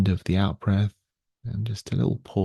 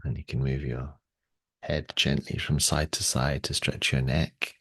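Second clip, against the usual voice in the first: guided meditation; 2 semitones lower than usual. Real, not acted. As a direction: gently lead them through the movements. Guides a gentle warm-up.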